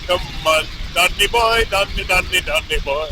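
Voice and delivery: mock Irish sliding into an Indian accent; Irish accent turning Indian. Rider repeating the name, Irish accent getting Indian. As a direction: start Irish and drift toward Indian. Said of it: "now I'm getting Indian".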